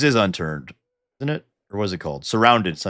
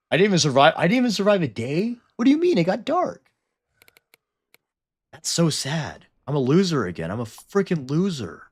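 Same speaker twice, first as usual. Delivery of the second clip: mock whine; 9 semitones higher, 4 dB louder than usual. Whining after dying on day one.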